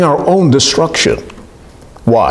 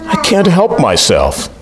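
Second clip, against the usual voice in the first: higher, slow voice of a scorpion that can't help it; shrugging scorpion; 6 semitones higher, slower than usual. Retold or imitated. Scorpion answers the dying frog, higher and slow. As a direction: play the scorpion owning its nature. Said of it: "what the scorpion said".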